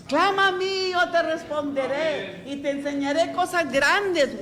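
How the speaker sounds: fervent Bible reading; scripture read with fervor. Acted. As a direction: proclaim the verse like a promise from above. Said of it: "Alzaré mis ojos (scripture quote)".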